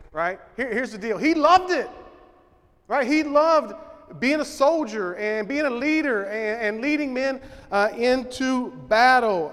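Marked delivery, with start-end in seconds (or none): 1.2-9.5 preaching louder. Acted. Preacher stirring the men about the soldier's love of battle, loud. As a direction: lift it higher and louder, building the point.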